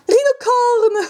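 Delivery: high-pitched drawn-out squeal of delight; greeting a long-missed favourite, high and gleeful; delighted cry. Real, not acted. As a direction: call out the name high and stretched.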